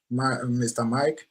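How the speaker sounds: usual speaking voice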